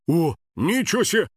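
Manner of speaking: mildly amazed exclamation; surprised. Acted. Guard seeing a strange animal, mildly surprised. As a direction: let a touch of wonder in. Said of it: "удивлённо проговорил охранник".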